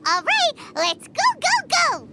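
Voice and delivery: rally the group, all excitement; bouncing with eagerness to set off; eager cheer. Acted. Paimon eagerly urging everyone on.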